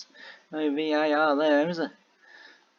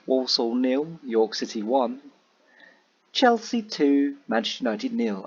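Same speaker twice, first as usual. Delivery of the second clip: bingo caller. Shown as a demonstration. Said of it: "I sound like a bingo caller then".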